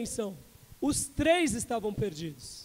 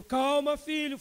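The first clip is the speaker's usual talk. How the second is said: firm and calm; 5 semitones higher, 4 dB louder, slower than usual. Retold or imitated. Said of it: "falando com firmeza".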